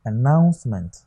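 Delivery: announcement as a-NOUNCE-ment; stress on second syllable. Shown as a demonstration. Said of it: "The stress is on what?".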